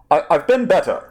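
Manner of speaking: put-on tired exhale, Core Worlds accent; weary Obi-Wan. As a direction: sigh it out wearily. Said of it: "A long inhalation".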